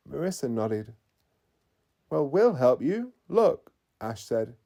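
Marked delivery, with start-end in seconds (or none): 2.1-3.7 loud, high, keen offer to help; rally them with energy; eager. Acted. Ash eagerly promising to help Mateo and Marissa, loud.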